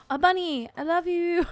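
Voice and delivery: high, loud, gushing over a bunny; excited gush. Retold or imitated. Husband spotting a bunny, gushing high and delighted. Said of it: "and he's like".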